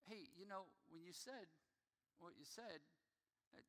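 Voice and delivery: a softly spoken wife pointing out a hurt; gentle hushed wife. Retold or imitated. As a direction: break it to him gently and softly. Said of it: "Jamie will be like".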